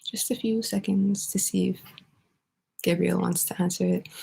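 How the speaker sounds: soft unvoiced whisper while waiting; half-breathe it to yourself; whispered aside. Real, not acted. Teacher waiting for a student, whispering to herself.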